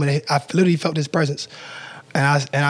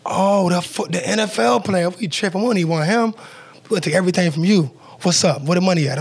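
higher, lively voicing of the robbers; imitating the gunmen turning around, pitched up with excitement; mock excited robbers; 4 semitones higher than usual. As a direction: play the robbers suddenly thrilled by who they caught. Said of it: "turned around like".

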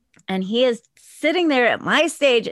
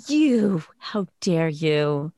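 indignant; 7 semitones lower, much slower than usual. Retold or imitated. Confronting the man in the story.

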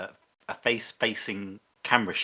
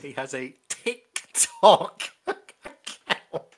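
slow, laughing ticking clock voice; clock impression; 3 semitones higher, 4 dB louder, much slower than usual. Shown as a demonstration. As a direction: tick out each syllable, slowly. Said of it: "that's my clock impression".

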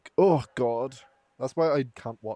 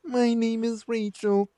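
higher, slow robot reading; robotic voice; 10 semitones higher, slower than usual. Pretend. Friend redoes the chain post, robotic voice. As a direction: mechanical ghost girl introduction. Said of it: "the robotic voice".

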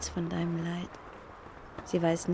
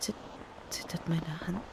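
hushed, breathless whisper; 2 semitones lower, 6 dB quieter than usual. Acted. Speaker seeing Bernhard at the bookcase, whispering. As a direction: barely breathe the words out. Trembling hand, unsure it's him.

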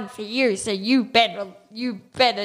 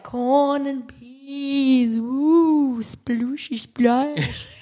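shouting underwater; 3 semitones higher, much slower than usual. Pretend. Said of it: "how are you talking underwater".

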